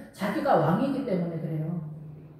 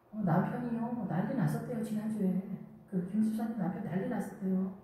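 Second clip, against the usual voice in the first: softer, gossiping voice; hushed gossip; 7 dB quieter than usual. Retold or imitated. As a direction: pass on the news in a hush. Church gossip voiced softly.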